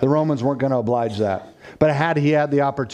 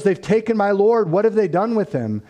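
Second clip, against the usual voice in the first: higher-pitched, mildly distraught retold plea; imitating grieving Mary; 9 semitones higher than usual. A preacher retelling Mary's words to the supposed gardener, mildly distraught. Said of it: "she is crying".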